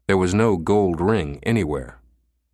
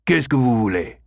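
irritated; 4 semitones higher than usual. Acted. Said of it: "He scowled at having been disturbed".

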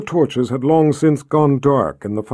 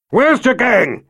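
raised commanding call; 9 semitones higher, slower than usual. Acted. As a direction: call across to the guards. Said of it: "he called out".

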